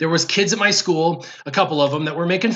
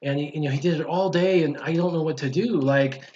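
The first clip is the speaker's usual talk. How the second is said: put-on subdued little-kid grumble to mom, softer; retold tearful complaint; 5 dB quieter than usual. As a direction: mildly imitate an upset child confiding. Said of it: "I started crying".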